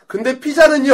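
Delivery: high, loud pupil protest; mock insistent interruption. Students interrupting the closing speech about pizza, insistent. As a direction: cut in loudly, demanding an answer.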